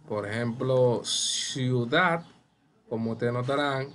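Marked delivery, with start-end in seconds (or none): 1.0-2.2 "ciudad" with the weight on "dad"; stress on final syllable. Shown as a demonstration. Teacher giving an example of agudas, stressing the end of "ciudad". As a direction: lean on the last syllable of "ciudad". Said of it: "la mayor fuerza".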